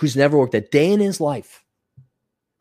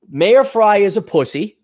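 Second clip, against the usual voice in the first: ballsy taunt; 4 semitones higher, 4 dB louder than usual. Pretend. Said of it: "walk in and say".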